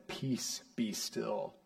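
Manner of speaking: soft, calming command; hushed command. Acted. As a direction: quietly still the storm. Jesus calming the storm, quoted.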